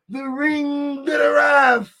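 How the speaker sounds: shouted, drawn out slowly; laughing shout. Real, not acted. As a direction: belt it out laughing.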